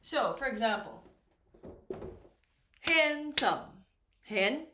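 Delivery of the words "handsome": "handsome" in two beats, higher pitched; syllable by syllable. Shown as a demonstration. Teacher counting syllables for learners, "handsome" split in two beats. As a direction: sound out both syllables of "handsome". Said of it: "we have two syllables here".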